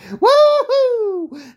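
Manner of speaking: high, loud woohoo; whooping woohoo for a nice job; excited whoop. Real, not acted. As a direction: cheer like a crowd member. Cheering the fighter's win.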